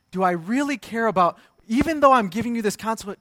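acted-out stern questioning; retold angry insistence. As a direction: press the point like a cross parent. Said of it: "I got so angry".

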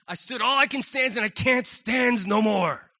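lightly voiced cartoon sailor at his limit; a hint of the fed-up sailor man; Popeye. Preacher quotes a cartoon sailor's breaking point, lightly imitated. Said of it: "You have that Popeye moment".

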